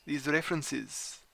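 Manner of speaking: light put-on French accent; a hint of a Frenchman, lightly voiced. A player voicing his French character, a light French accent. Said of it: "I don't think my accent is".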